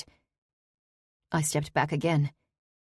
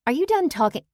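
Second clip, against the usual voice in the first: sharp, high, annoyed question; irritated scowl; 10 semitones higher, 5 dB louder, faster than usual. Acted. Daughter snaps at the intruder, high and irritated. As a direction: demand it with a scowl.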